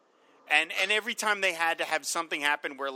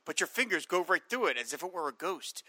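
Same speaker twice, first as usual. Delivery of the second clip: reading text aloud; 2 semitones lower than usual. Acted. Reading the comic's hologram text piece to his cohost, lightly dramatic. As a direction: read it like a dry science pamphlet. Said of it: "two-page text piece talking about the holograms".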